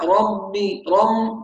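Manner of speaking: "ربي" said slowly as "ramb-bi", the b hummed through the nose; nasalized ba. Shown as a demonstration. Teacher imitates a common error, ربي with a nasal mb. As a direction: blend an m into the b of "ربي". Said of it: "كأنه بينطق من الخيشوم".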